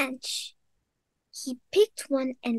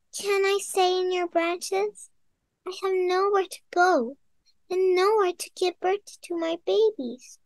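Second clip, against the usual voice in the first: bird voice; 6 semitones higher than usual. Acted. Bird asks for shelter.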